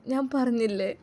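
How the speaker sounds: a brief sob as she tells her daughter; crying. Acted. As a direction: voice catching in a sob. Mother shocked, phone switched off.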